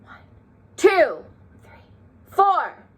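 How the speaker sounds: two, three whispered high and breathy; whispered counts. Shown as a demonstration. Teacher leading class, counting the notes quietly in a whisper. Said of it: "count our notes quiet".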